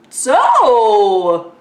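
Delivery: high, loud, giggling call to the spirits; laughing, hammed-up ghost hunter; laughing playful summoning. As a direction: goof around calling ghosts while laughing. Mock casual spirit summoning.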